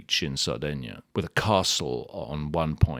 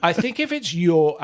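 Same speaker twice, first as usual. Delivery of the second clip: breathy laugh through the words, much higher; 11 semitones higher, 6 dB louder than usual. Real, not acted. Answering the host's teasing, talking through a laugh. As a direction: still giggling while making the point.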